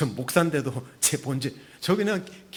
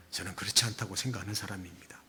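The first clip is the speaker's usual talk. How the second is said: whispered; 6 semitones lower, 8 dB quieter, faster than usual. Real, not acted.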